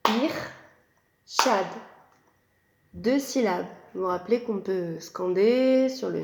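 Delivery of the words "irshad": Ir-shad split into two clear beats; syllables tapped out. Shown as a demonstration. Teacher to pupils, scanning the name in beats. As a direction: scan the name beat by beat. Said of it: "On tape les syllabes, on scande".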